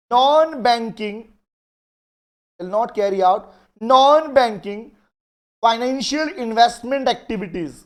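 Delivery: each phrase spaced out very slowly, word by word; slow dictation. Acted. Teacher slowly dictating a law clause to the class. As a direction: dictate clearly so students can write it down. Dictating a legal provision to students.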